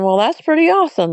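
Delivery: high, quick, thrilled inner thought; giddy about the creepy howl; excited. Retold or imitated. Thinking after hearing the howl.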